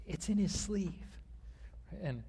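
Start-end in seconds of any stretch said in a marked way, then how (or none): 0.1-1.2 hushed whisper of a secret tip. Retold or imitated. Father tipping off his daughters about the trick, whispering. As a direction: lean in and whisper it. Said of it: "So I whispered to my daughters".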